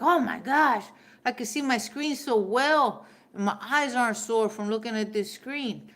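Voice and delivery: loud, high thrilled gasp of delight; excited gush. Retold or imitated. Trying on her daughter's glasses, a loud thrilled gush. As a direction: gush like the glasses changed your life.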